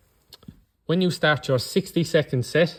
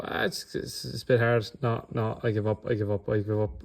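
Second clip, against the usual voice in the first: quitter giving up; 3 semitones lower, 5 dB quieter than usual. Retold or imitated. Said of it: "and then they'll go".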